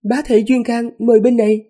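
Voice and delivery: high, loud fiery demon call; fire demon voice. Acted. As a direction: shout it as a blazing demon.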